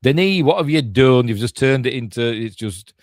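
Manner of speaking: exasperated appeal. Pretend. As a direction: call out the director in mock despair. Exasperated appeal to absent director.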